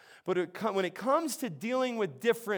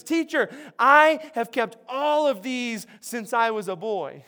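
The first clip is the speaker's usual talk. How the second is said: slow and louder, proudly declaring; excited declaring; 3 semitones higher, 5 dB louder than usual. Retold or imitated. Young ruler boasts to Jesus, excited and loud. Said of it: "he's all excited".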